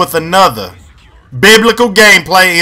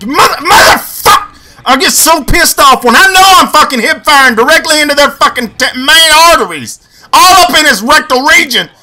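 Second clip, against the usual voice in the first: higher, raging rant at the game; rage outburst; 6 semitones higher than usual. Real, not acted. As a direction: blow up at missed kills. Rages at failed kills.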